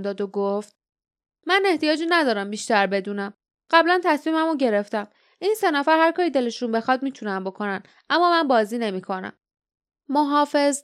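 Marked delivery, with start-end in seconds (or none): 1.5-9.3 brisk, firm refusal with a touch of defiance; defiant Nerida. Acted. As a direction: fire off a quick, decided objection.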